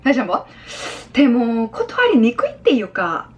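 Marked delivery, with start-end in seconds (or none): 1.1-3.3 slow, dragged-out coy hesitation; playful schoolgirl imitation; mimicking a schoolgirl. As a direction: draw it out like a girl making excuses. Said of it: "여고생 흉내를 내면서 말을 한".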